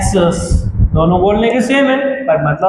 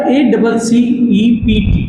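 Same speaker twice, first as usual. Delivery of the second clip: slow spelling out; much slower than usual. Shown as a demonstration. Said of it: "हम इसको क्या pronounce करेंगे".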